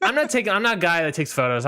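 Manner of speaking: high-pitched, fast mock whine. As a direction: mimic yourself in a squeaky whine. Imitating his own retort.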